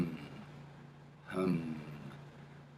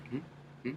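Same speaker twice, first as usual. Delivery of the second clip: flicked hum; 3 semitones higher, 15 dB quieter than usual. Shown as a demonstration. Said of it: "And now the flicking".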